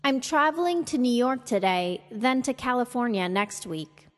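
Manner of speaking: lifted on the focus word, falling to a close on "next week"; falling statement intonation. Shown as a demonstration. Teacher modelling for learners to repeat, falling intonation. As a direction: complete the statement with a fall through "next week". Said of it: "fall at or after the focus word".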